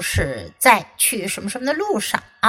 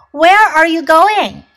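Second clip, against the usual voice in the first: Squirrel voice; 5 semitones higher, 6 dB louder than usual. Acted. Squirrel voiced in read story.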